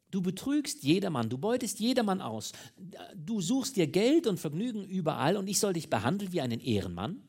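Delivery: high, loud, outraged tirade; indignant outburst. A narrator's reading. Mistress refusing to treat a cheat as gentleman, outraged. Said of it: "stieß sie hervor".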